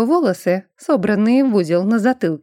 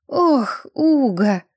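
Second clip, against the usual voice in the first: groaning; 4 semitones higher, much slower than usual. A narrator's reading. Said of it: "простонал Рихард".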